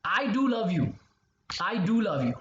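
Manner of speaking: emphatic do; stress on do. Shown as a demonstration. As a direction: do pressed firmly. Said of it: "Let me show you some examples".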